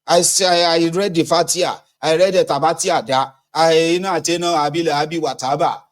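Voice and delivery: high, lively spiritual boast; high hammed-up spiritual brag; excited mock testimony. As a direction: act proud of your prayers. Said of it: "I was like".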